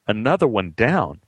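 another one down asked as a baffled question; puzzled echo. Retold or imitated. Repeating Al's line puzzled.

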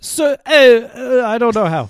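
an attempt at a thick Chicago accent. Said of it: "What the hell was that?".

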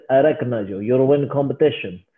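put-on Russian accent; rough attempt at a Russian accent. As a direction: imitate a big Russian guy's accent. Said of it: "this big Russian guy walks in".

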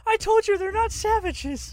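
high, loud put-on orc protest. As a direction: insist like an offended orc. GM voicing orc in argument.

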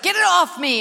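mock panic, get it off; panicked cry. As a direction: shake it off in alarm. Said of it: "So I was like".

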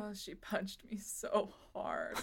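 softly winded complaint; quietly sore; battered and hurting. Acted. Mavis hurting after the punch.

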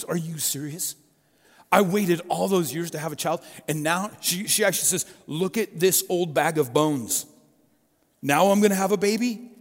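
Sarah can't believe it; amused disbelief. Acted. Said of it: "Sarah thinks it's hilarious. She laughs".

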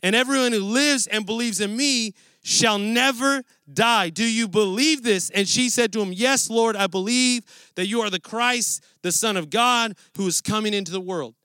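scripture reading. Acted. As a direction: read the passage aloud to the congregation.

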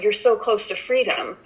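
gently urging a trapped fly toward the window; coaxing the fly. Retold or imitated. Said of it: "I was talking to it".

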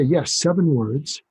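slow, inviting public-radio voice. Shown as a demonstration. Parent offering an angry teenager seven words, slow and inviting. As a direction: draw them in gently, slowly. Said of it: "So it's an inviting way".

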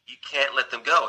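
mild retold plea; understated imitation of a plea; pleading. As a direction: lightly act out begging. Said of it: "She pleads with them".

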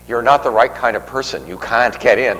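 imitating a snooty refusal in a Boston accent; thick Boston accent. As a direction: mimic the Boston gentleman barring the way. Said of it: "with a real thick Boston accent".

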